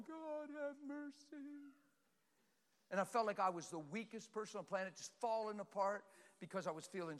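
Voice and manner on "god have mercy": retold crying plea. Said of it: "I'm crying face down".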